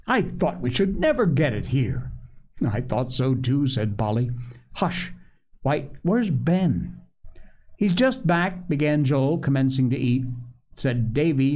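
measured storybook reading; story narration. A narrator's reading. Host reads a family tale to listeners, story narration. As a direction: read the story aloud, acting out each figure.

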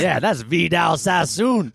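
defensive stranger. Acted.

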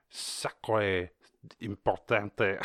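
slow, put-on French accent; hammed-up French, drawn out; mock French. Joking to friends about France, mock French accent.

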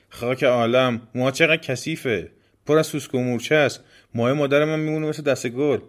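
acted haughty disgust; disgusted scorn. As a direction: recoil from filth and sneer. Rude girl scorns the demon's hair.

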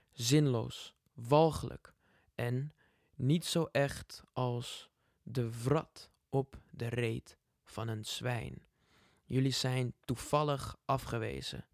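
angry poem reading. Shown as a demonstration. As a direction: read it with rising fury. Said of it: "hij is best wel boos". (boze voordracht)

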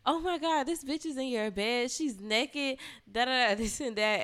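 high, mock-shrill rant; mocking the angry girlfriend. The other girl barging in on them, mocked high and shrill. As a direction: imitate her freaking out. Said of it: "She was like".

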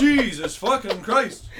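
slow, loud, high Canadian swearing; excited Canadian. Retold or imitated. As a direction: drag out the curse, hammed-up Canadian. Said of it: "we were all Canadians, too, so we were like".

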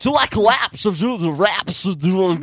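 lightly mocked rapper voice; mocking impression. Friend parodies the friend's impression of a rapper. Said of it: "that's how you made him sound".

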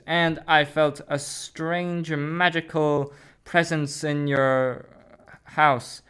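a hint of an old wizard; Dumbledore. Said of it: "I am Professor Dumbledore".

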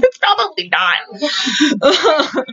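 very slow, dry deadpan; deadpan aside. Retold or imitated. Viewer answers the movie husband, slow and deadpan. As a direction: drag it out, flat doubt. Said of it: "And I'm like".

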